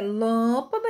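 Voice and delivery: "lâmpada" with a lengthened, stressed "lâm"; long strong syllable. Shown as a demonstration. Teacher describing the metrical foot, "lâmpada" held on its first syllable. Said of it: "e demorada e, e mais forte".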